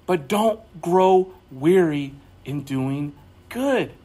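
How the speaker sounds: slow, low encouragement; tender preacher exhortation; reassuring. Real, not acted. Pastoral exhortation.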